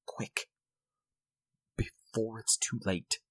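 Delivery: soft, slow, resigned; hopeless resignation. A narrator's reading. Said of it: "acquiring a softer quality, as of hopeless resignation".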